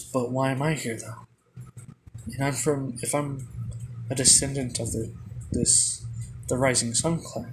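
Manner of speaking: usual speaking voice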